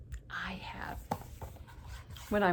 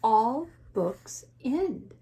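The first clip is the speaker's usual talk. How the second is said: Piggy; 2 semitones higher, much slower than usual. Acted. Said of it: "Piggy explains it to him".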